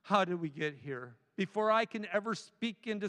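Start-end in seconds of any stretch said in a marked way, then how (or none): 0.0-1.2 soft, wondering question to oneself; curious musing. Retold or imitated. Pastor voicing a curious question to the congregation, softly. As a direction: ask it gently, puzzled. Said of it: "we can be curious and go".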